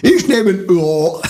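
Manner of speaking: slow, high, broad Saxon with drawn-out O; Saxon game-show contestant. Pretend. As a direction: echo it as an exaggerated Saxon contestant. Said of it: "wenn der Sachse da mitgespielt hätte".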